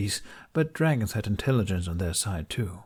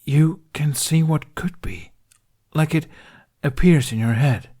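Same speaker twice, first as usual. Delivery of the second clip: louder, forceful and straining; frustrated insistence; 7 semitones higher, 8 dB louder than usual. Acted. Dragon lecturing Hiccup on the human mind, loud and frustrated. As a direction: drive the point home.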